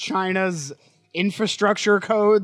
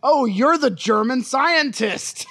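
higher, hammed-up sudden realization; mock realization; 4 semitones higher than usual. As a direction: act as if it just dawned on you. Acted film dialogue, mock obviousness.

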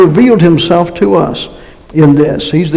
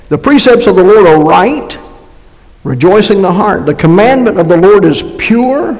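raised, emphatic scripture reading; 3 semitones higher than usual. Acted. Preacher reading a psalm to the congregation, emphatic recitation. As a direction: read the verse out with lifted, measured emphasis.

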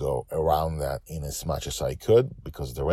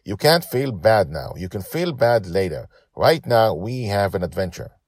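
a hint of a stern child; harsh little captain; 4 semitones higher, 5 dB louder than usual. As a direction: scold him lightly like a small boss. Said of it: "she spoke harshly at him".

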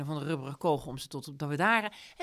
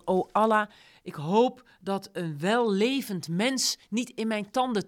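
loud, slow, grand invocation; solemn proclaiming; 3 semitones higher, 6 dB louder, slower than usual. Retold or imitated. Salas tells what the lion roars, loud and slow. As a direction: declaim it like a roaring lion's prayer. Salas quotes the lion's roar.

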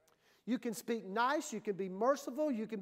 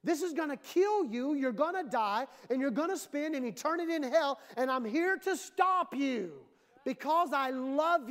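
urgent warning; 4 semitones higher than usual. Acted. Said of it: "only thing that's gonna get people's attention".

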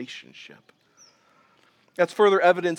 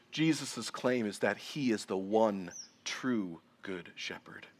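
slow and much softer, fading into a whispered "shepherd"; hushed to a whisper; 7 semitones lower, 11 dB quieter, slower than usual. Real, not acted. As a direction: drop the voice low and breathe the last word. Preacher's dramatic emphasis.

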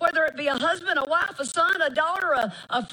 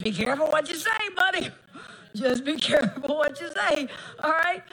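warning son. Retold or imitated. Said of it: "I said".

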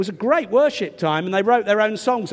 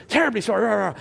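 posh voice; much faster than usual. Retold or imitated. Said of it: "quite posh voice".

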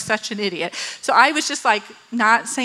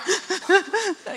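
mock sobbing; 7 semitones higher, 4 dB quieter than usual. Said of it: "I'm, like, in the car, like".

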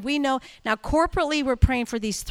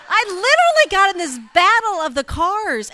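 laughing while telling it; 8 semitones higher, 10 dB louder than usual. Real, not acted. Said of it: "road rage".

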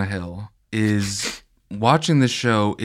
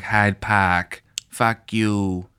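mock TV Boston accent; much slower than usual. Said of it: "people saying".

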